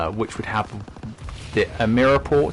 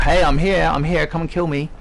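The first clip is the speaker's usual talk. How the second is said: soldier shouting out; 6 semitones higher than usual. Retold or imitated. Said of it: "stop shouting out".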